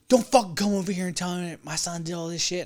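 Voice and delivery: mock angry father snapping back; angry dad retorting. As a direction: voice the dad's angry rebuke. Angry dad yelling at him.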